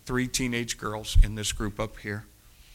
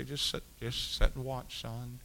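soft reassurance; 6 dB quieter than usual. Retold or imitated. Calming the young man again.

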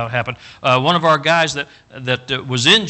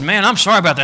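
mock sympathy; 6 semitones higher, 6 dB louder, faster than usual. Retold reply to friend.

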